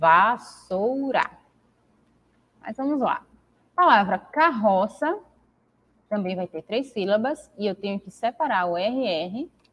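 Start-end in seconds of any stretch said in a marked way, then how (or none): 0.0-1.3 vassoura slowed, split syllable by syllable. Teaching how to split syllables, saying vassoura slowly, syllable by syllable. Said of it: "Olha como quando eu falo devagar".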